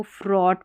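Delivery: फ्रॉट as "frawt", vowel straight into t; no gh sound in फ्रॉट; silent GH. Shown as a demonstration. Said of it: "इसको फ्रॉट पढ़ेंगे".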